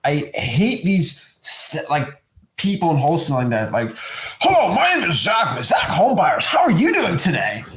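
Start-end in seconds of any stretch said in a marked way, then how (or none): 4.4-7.6 booming, sing-song sales greeting; over-the-top cheery pitch, high and swooping; fake salesperson. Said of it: "does that sound real?".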